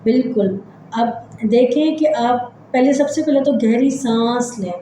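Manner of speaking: measured relaxation-exercise voice with long pauses; guided meditation. Acted. Leads breathing body-scan relaxation.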